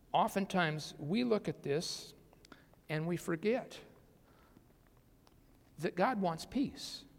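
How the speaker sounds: a hushed whisper to the congregation; breathy unvoiced whisper. Real, not acted. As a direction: drop to a whisper, as if sharing a secret. Preacher drops to confiding aside.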